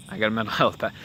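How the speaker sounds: a real laugh slipping out mid-line. Real, not acted. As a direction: laugh breaks into the middle of it.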